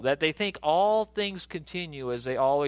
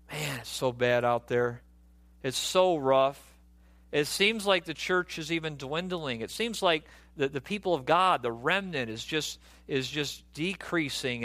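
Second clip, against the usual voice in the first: defeatist; 4 semitones lower than usual. Acted. Preacher voicing believers who think the church is dwindling, defeatist. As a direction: mimic someone who has given up, pitched down. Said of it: "defeatist determinism".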